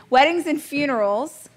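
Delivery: trying to keep a straight face; stifling a laugh. Real, not acted. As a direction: giggle breaking through the words. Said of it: "I can't even say it with a straight face".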